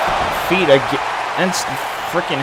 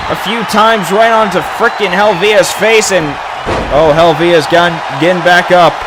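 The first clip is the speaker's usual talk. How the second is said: wrestling commentator. Real, not acted. Calls the match play-by-play.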